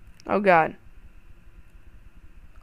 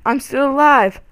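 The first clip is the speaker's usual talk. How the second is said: louder, higher, triumphant disbelief; excited shout; 6 semitones higher, 5 dB louder than usual. Real, not acted. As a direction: yell it with relief. Surprised survival in game.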